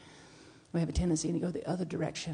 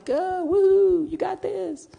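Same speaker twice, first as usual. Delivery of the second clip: cheering sideline voice; 12 semitones higher, 6 dB louder, much slower than usual. Retold or imitated. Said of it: "on the sidelines going".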